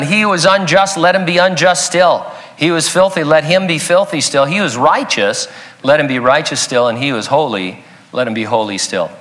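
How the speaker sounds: measured, solemn reading that falls and softens toward the end; scripture reading. Acted. Reads scripture verse aloud.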